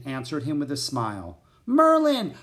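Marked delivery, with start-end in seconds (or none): 1.6-2.3 very high, loud, happy exclamation; joyful greeting. A narrator's reading. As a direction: call the name out with delight. Annie joyfully greets her friend.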